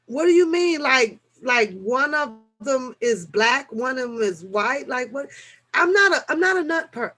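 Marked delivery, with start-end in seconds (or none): 0.1-0.8 high, loud shocked question; surprised. Real, not acted. 5.7-7.1 flustered protest. Real, not acted. Flustered denial.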